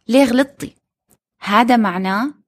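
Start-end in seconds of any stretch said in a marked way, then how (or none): 0.1-0.8 put-on child yelling. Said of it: "عم بيصرخ عليها".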